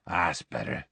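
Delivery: soft, low sigh of relief; satisfied moan. A narrator's reading. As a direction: let it out with relief. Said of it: "soft moan of satisfaction".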